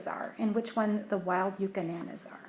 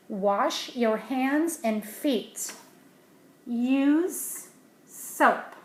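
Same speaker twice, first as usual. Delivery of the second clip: sign read aloud; 3 semitones higher, 5 dB louder, much slower than usual. Acted.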